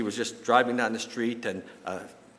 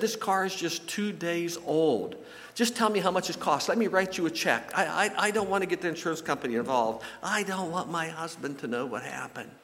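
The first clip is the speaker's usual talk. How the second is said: higher-pitched mock upset woman, no real sobs; imitated tearful distress; 5 semitones higher than usual. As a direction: act out a distraught driver pleading. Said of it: "then she really started crying".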